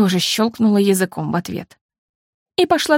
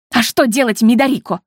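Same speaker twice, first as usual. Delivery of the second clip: a sharp retort, stress on "что"; mild snappish comeback; snapping back; 3 semitones higher, 3 dB louder than usual. A narrator's reading. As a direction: snap at your sister. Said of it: "огрызнулась я".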